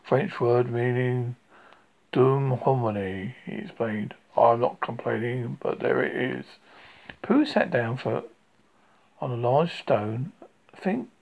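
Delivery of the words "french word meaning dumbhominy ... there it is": gloomy. Acted. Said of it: "went on Eeyore gloomily".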